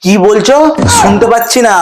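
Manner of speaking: shouting. Acted. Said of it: "শুধু শুধুই চেঁচাচ্ছিলাম তোমাকে".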